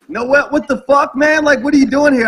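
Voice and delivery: a stunned what-the-hell, played up; mock shocked outburst.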